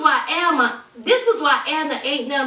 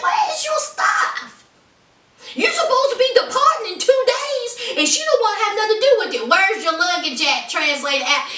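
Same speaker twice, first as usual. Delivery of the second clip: much higher, then rushing fast; high incredulous rant; 6 semitones higher than usual. Retold or imitated. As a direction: pile on the questions in shock. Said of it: "I said".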